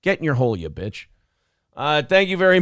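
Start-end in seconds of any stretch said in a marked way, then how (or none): 0.0-1.1 mock scolding. Host acting out scolding Marsha, hammed-up exasperation. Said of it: "You're like".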